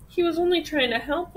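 a touch of a plaintive wail; mild weeping. A narrator's reading. Cat defending the missing duck, mildly weepy. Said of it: "wept the cat".

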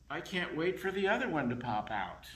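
can hardly wait; excited. Acted. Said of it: "And now he says".

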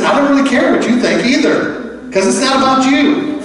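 a hint of an unbothered Jesus; voiced Jesus. Jesus voiced answering disciples.

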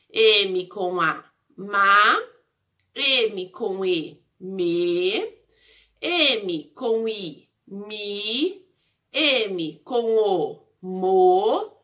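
slow spelling-out of each syllable, stretched vowels; syllable drill. Shown as a demonstration. Teacher drilling the M syllables for the class, slow syllable drill. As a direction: sound out each M syllable slowly and separately. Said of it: "Essas são as sílabas da letra M".

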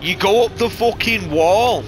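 drawn out, loud and high, hitting go; amazed shout. Real, not acted. Gamer shouting at a rival's replay in astonishment. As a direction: yell it like you can't believe it.

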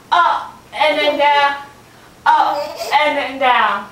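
winded, puffing through the reps; out of breath. Real, not acted. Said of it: "I'm already out of breath".

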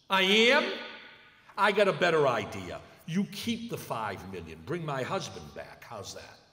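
retold furious outburst at the offer; bitter widow refusing the money loudly; angry widow. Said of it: "Angry, angry, angry, angry".

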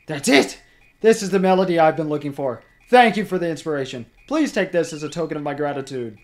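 lightly voiced excited composer; grateful, loud and fast; character voice. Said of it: "I'm not doing a good enough voice for this guy".

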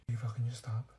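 urgent whisper. Acted. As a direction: hush her urgently. Hushing friend, being watched.

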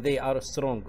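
very slow, carefully articulated English; slow model sentence. Shown as a demonstration. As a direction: model it slowly for the class. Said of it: "أو مثلًا". (نطق بطيء وواضح)

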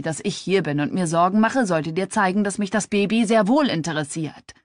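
annoyed. Acted. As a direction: lean in and push the point hard. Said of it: "Fluchend beugte er sich über sie".

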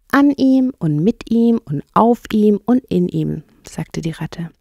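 enthusiastic water rat. Acted. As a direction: rhapsodise about the river, stressing each item. (schwärmende Wasserratte)

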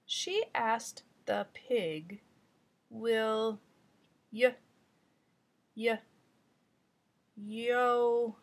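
slow, stuttering beginner reading; stumbling child reader. Shown as a demonstration. Teacher playing a child stuck on words, halting. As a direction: stall on each sound like a stuck child. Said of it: "I will have to be both the child".

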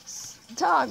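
high, rushed, tongue-tied gabble; talking too fast. Acted. Gamer voicing excited Jake, gabbling high until tongue-tied. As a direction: trip over the words and crack up. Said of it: "I'm talking so fast I can't even".

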